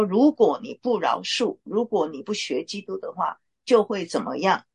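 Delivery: mild mock threat; threatening tone. Shown as a demonstration. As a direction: lay out an if-then threat, lightly acted. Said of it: "用这样的一个语气来说…这样的话就是威胁了".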